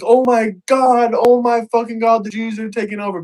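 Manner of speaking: exaggerated fake shock at the news; mock outrage. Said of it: "they would be like".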